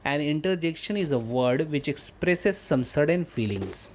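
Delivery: teacher dictating at half speed; slow dictation reading. Shown as a demonstration. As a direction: read the definition very slowly, word by word. Reads English definition to class.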